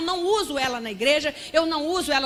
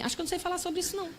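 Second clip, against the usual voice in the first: retold private doubt, much softer; talking to oneself; 3 semitones higher, 11 dB quieter, much faster than usual. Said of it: "eu falei pra mim". (falando baixinho consigo mesmo)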